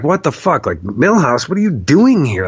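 retold baffled outburst, pitch jumping; mock disbelief at an unexpected arrival; wigging out. Man to his dead dog appearing in a vision, wigging out. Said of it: "wigging out at this time".

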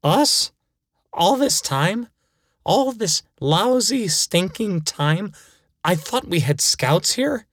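put-on outraged kid. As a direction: build from disbelief into a mock tantrum. Kid realizes he was lied to.

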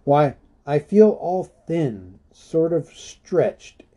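high, slow, stretched-thin hobbit; Bilbo voice. A narrator's reading. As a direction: sound worn thin and drawn out. Bilbo voiced, weary complaint.

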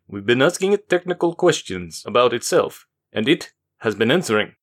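a lightly voiced worried man; concerned Forbin. Forbin briefs Daniqua, mildly concerned. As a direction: let concern tint the report. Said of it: "Forbin's face was concerned".

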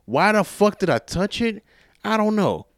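high, exasperated outburst; exasperated self-reproach. Real, not acted. Asking himself about touching the chain, exasperated. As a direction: question yourself in a high, slowing whine of disbelief.

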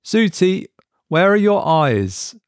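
nervous question. A narrator's reading. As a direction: ask as if afraid of the answer. Mark asks nervously.

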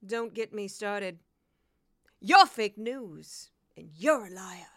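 loud, slow, self-important former news anchor turned politician; mocking a grandstanding ex-newscaster, loud and drawn out; Kari Lake parody. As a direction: ham up a brash TV-anchor politician, punching every line. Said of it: "I'll do a brief impression".

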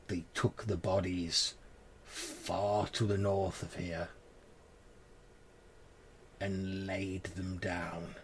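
put-on slow, hushed grieving old woman; grieving crone voice. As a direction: mourn the stolen child, slowly. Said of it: "She says".

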